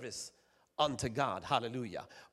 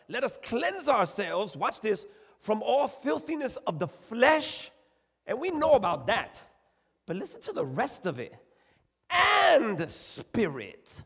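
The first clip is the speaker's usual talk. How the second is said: high, drawn-out key words swelling louder; emphatic scripture preaching; 7 semitones higher, 6 dB louder than usual. Acted. Preacher reading the text to the church, emphatic and stretched. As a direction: preach the verse slowly, leaning hard on key words.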